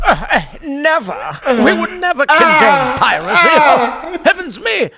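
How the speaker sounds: high, laughing prissy British voice; mock-innocent toff, giggling; hammed-up English crown denying the pirates; posh British denial. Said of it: "the British would be like".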